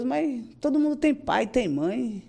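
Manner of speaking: mildly pained, retold appeal; retold plea to God. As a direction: ask it as a drawn-out complaint.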